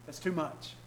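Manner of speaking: hushed, soft pleading of the flesh. Retold or imitated. The flesh begging Jesus to avoid the cross, hushed plea. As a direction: coax softly as temptation. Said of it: "his flesh was screaming out".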